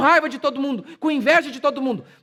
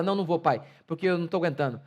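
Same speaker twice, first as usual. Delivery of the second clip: lower, softer defeated voice; imitated weary son; 5 semitones lower, 3 dB quieter, faster than usual. Preacher voices a son quitting the exam, low and defeated. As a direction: give up like a tired son. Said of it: "ele fala".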